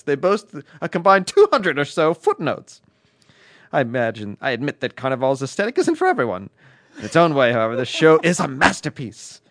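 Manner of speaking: mock British accent reading a letter; bad British accent. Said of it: "you decided to go all Brit".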